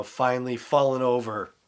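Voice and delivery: usual speaking voice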